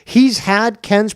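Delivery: real heated objection; loud rebuttal. Real, not acted. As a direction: shout the claim down word by word. Shouting down a claim in argument.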